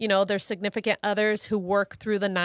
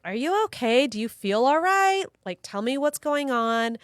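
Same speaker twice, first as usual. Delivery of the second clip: put-on pitched-up questions to a child; retold concerned mother; 4 semitones higher than usual. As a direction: check gently on an upset child, voice lifted. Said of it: "she was just crying".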